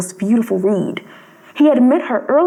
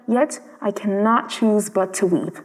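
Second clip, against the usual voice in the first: slow and softer, grieving; sorrowful; 3 semitones lower, 4 dB quieter than usual. Acted. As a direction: let it sink in sadness. Prince grieving.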